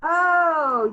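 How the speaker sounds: a bright burst of remembering; sudden recollection. Acted. Inspector suddenly recalls the male nurse's name, surprised.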